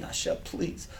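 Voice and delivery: breathy, hushed plea to God; pleading. Retold or imitated. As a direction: beg softly, almost whispered.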